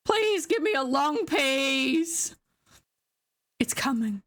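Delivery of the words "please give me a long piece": slow, drawn-out plea; pleading. Real, not acted. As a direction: beg for it, stretching the words. Begging the game for a piece.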